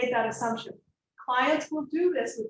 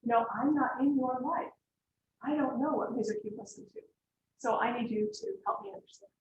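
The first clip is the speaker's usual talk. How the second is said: calm, patient explanation; 6 dB quieter than usual. Shown as a demonstration. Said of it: "then you can say".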